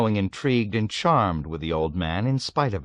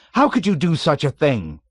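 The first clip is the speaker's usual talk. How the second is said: horrified indignation; 8 semitones higher, 6 dB louder than usual. A narrator's reading. Nately accuses the old man, horrified and indignant. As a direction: recoil and accuse.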